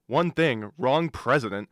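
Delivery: put-on loud indignant British accent; huffy British accent, pushing back. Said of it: "you sound British".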